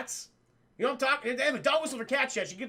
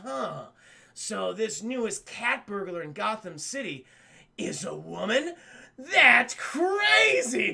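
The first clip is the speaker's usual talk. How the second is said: hammed-up Batman; 3 dB louder, slower than usual. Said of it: "he goes".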